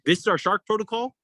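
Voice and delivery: high-pitched retold disbelief, rising at the end; incredulous. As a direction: question the crew as if you can't believe it. Acted disbelief at slow rescue.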